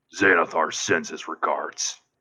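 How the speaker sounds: put-on deep, almost orcish, orc-like accent. A narrator voices a figure sitting in the back corner, in a deep, almost orcish accent. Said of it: "a deep, almost like an orcish accent".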